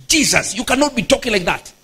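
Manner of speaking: mock rebuke. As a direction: imitate a presumptuous rebuke, pitched a bit up. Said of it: "He now started rebuking Jesus".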